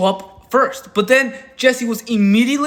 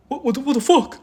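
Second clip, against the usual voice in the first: much higher, sputtering mock outrage; mock shocked disbelief; 6 semitones higher, 3 dB louder than usual. Mocking the man whose threat failed, high sputtering shock. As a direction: act baffled that the order failed. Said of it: "And Brony Fan was like".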